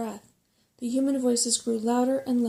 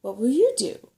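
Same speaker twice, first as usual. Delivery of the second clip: breathless, louder and worried; panting; 3 semitones higher, 9 dB louder than usual. A narrator's reading. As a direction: gasp out the question. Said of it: "panted Sorrel".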